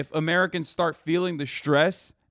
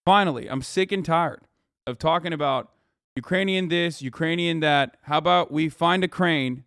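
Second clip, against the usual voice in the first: sarcastic. Acted. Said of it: "I'm being sarcastic".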